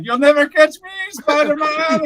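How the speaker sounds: high, hammy cartoon villain taunt; mustache twirling villain. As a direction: gloat like a cartoon baddie. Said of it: "you can see him twirl his mustache".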